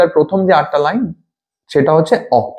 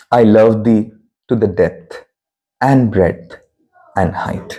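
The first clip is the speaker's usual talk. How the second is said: poem reading; 7 semitones lower, much slower than usual. Shown as a demonstration. Recites the sonnet line.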